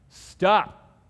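loud, high command; Jesus silencing the storm; commanding stop. Retold or imitated. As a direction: order the storm to halt.

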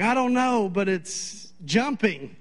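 high frightened voice, slowing on the last words; imitating a frightened wife. Wife on the phone with husband, imitated high frightened voice. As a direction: play the scared wife, dragging out the end. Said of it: "she's just hysterical".

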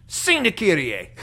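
slow, insistent imitation of a Filipino accent. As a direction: repeat it firmly in a Filipino accent. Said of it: "he had a very strong accent".

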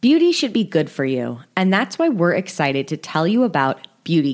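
upbeat, loud sponsor read. Acted. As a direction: sell it like a podcast ad.

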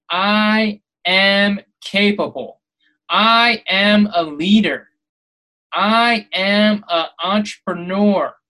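slow, firm affirmations; positive affirmations. Shown as a demonstration. Podcaster demonstrating affirmations to listeners, slow and firm. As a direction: state each one slowly and surely. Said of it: "Do positive affirmations".

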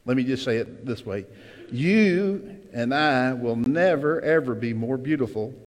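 ordinary talk

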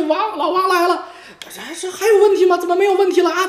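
high, laughing crow of victory; laughing gloat. Real, not acted. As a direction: laugh through the boast. Laughing at his own gloating.

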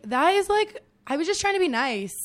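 retold indignant protest. Retells protesting at being fired.

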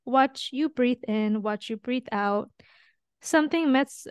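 slow, tender lyric read; reading lyrics aloud. Shown as a demonstration. Nurse reading the lyrics aloud to her host, slow and tender. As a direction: let the lines breathe slowly. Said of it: "it goes".

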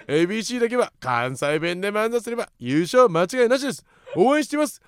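spirited, emphatic message reading; rousing radio mail read; listener message read-out. Acted. Reads listener's message aloud.

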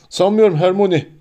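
understated sob in a character voice; sobbing, acted. A narrator's reading. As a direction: answer through held-back tears. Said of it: "diye hıçkırdı Hagrid".

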